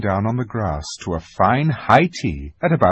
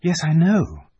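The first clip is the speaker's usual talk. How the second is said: put-on higher, impatient girl's retort; cross; 8 semitones higher, 3 dB louder than usual. A narrator's reading. Lucy answers Aslan while watching her brother, cross. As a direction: brush him off with mild irritation. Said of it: "said Lucy crossly".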